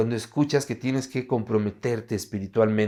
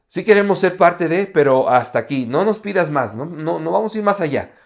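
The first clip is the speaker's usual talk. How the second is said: mildly protesting, voice lifted on each refusal; balking protest; 3 semitones higher, 4 dB louder than usual. Acted. Disciples refusing Jesus more commitment, mock protest. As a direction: push back, setting a limit.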